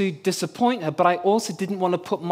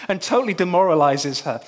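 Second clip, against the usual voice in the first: desperate prayer. Retold or imitated. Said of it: "And I'm praying".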